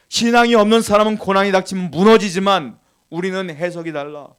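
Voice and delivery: loud, emphatic preaching, each clause driven home; forceful preaching. Real, not acted. Preacher urging believers to pray through hardship, forceful preaching. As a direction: press every point on the congregation with force.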